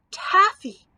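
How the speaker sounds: high, loud outcry; roared. A narrator's reading. Cowardly lion with stuck jaws, roaring it out. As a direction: burst out with the one word. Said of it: "rolled the cowardly lion".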